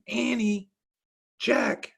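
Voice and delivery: high distant call across yard; mom calling out. Acted. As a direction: shout their names from far off. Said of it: "she called".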